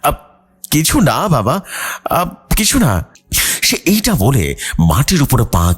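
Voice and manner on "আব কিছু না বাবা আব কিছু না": put-on high, startled young daughter; flustered denial, much higher; startled girl. A narrator's reading. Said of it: "যেন তার বাবার গলা শুনে সে বেশ ভয় পেয়ে গেছে". (বাবার প্রশ্নে চমকে ওঠা মেয়ে, উঁচু ভীত গলায়)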